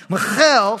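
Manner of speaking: "Michal" said slowly as mə-KHEL with a throaty kh, not like Michael; "Michal" with a guttural Hebrew ch and stress on the end; "Michal" drawn out as mee-KHAL, throat sound in the middle; Hebrew pronunciation. Shown as a demonstration. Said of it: "you gotta say it with the Hebrew accent".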